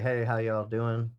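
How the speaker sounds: lightly Southern, drawn-out greeting; slow, easy hint of a Southern drawl; Southern accent. Radio host recalling how he used to greet people, light Southern accent. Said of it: "that's very Southern".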